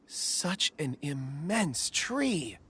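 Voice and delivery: slow, drawn-out wonder; hushed awe. Acted. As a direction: marvel at it slowly. Awed at huge tree.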